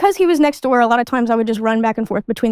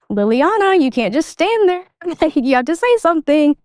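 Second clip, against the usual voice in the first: higher-pitched, lightly imitated exasperation; mock exasperated boss; 4 semitones higher than usual. Boss to employee standing at his desk, mock exasperated. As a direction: plead with a silent employee, half laughing. Boss confronting her waiting silently.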